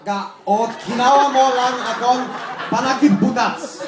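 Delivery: high-pitched wronged lover; hammed-up heartbreak; melodramatic accusation. Acted quarrel after "action.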